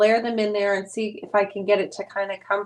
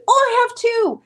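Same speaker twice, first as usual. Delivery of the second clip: higher, louder burst of surprise; retold excited discovery; 12 semitones higher, 7 dB louder than usual. Wife retells finding two nominations to viewers, excited exclamation. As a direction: exclaim it as if just spotting them.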